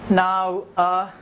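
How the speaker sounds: dry mock-serious tone; sarcastic. Real, not acted. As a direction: say it with light irony. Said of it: "I'm being sarcastic".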